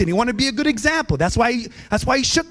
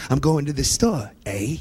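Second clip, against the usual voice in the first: Canadian eh; 6 semitones lower than usual. Retold or imitated. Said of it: "they'll go".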